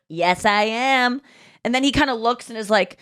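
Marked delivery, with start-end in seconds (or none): 0.1-1.2 slow retold reply at usual pitch; understated claim. Comedian answering a man who can't hear her, understated. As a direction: repeat it slowly and evenly, without pushing. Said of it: "I just kind of said it to him".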